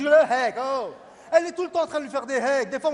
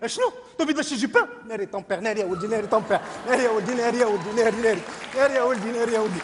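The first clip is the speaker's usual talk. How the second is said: mock panic. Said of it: "quand elle est paniquée".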